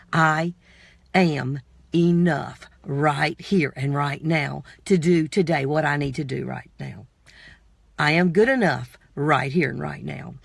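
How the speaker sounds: slow, low, deliberate affirmation. Shown as a demonstration. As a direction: recite it slowly like a mantra. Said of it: "Say it with me".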